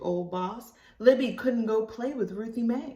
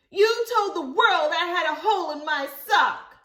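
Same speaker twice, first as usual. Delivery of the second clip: higher, louder accusing; hurt child voice; 10 semitones higher, 7 dB louder than usual. Acted. Ruthie Mae accusing Libby, high and hurt. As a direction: tell her off.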